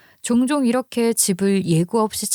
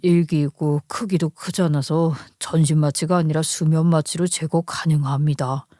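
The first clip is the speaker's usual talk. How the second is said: lightly voiced doctor, lower pitch; 4 semitones lower than usual. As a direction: deliver a diagnosis in a lower, level doctor's voice. (낮은 톤으로 설명하는 의사)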